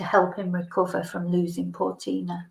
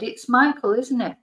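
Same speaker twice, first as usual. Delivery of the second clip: pitched-up bright guess at his name; eager guess; 3 semitones higher than usual. Retold or imitated. Tipsy teacher naming her old student, higher.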